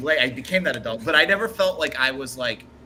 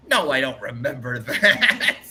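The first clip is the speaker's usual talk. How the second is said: slow, louder reply breaking into laughter; retold reply; 5 dB louder, slower than usual. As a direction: imitate his drawn-out denial, laughing through it. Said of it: "And he's like".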